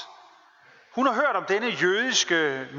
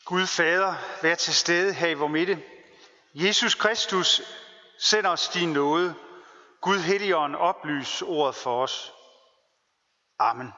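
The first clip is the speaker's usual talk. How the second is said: prayer. Acted. Preacher opening the sermon with prayer, solemn. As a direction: pray it out to the congregation, measured and solemn.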